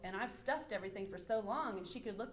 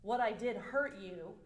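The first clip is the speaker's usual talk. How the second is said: earnest apology, key words leaned on; acknowledging apology. Acted. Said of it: "simple act of acknowledging that".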